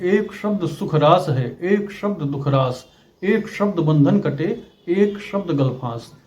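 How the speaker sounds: slow, measured couplet recital with weight on एक; poem recitation. Acted. Teacher reciting a Kabir doha to viewers, slowly. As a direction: chant each line slowly, pausing between them.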